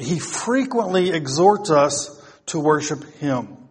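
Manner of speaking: "frequently" lifted and stretched above the rest; stress on frequently. Real, not acted. Preacher telling congregation God urges worship, stressing "frequently". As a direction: punch "frequently", then settle. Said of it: "I stress the word frequently".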